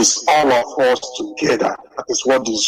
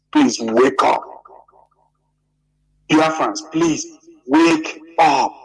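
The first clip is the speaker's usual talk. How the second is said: emotional plea; 2 semitones higher than usual. Real, not acted. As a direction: beg the crowd to wake up, voice lifting with emotion. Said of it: "I'm getting emotional".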